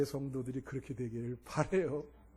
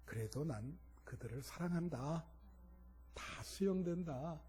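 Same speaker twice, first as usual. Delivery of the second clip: softly voiced answer from God; quiet, measured reassurance, retold; God's reply; 10 dB quieter than usual. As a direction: speak as God accepting them, gently and softly. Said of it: "그랬더니 하나님이".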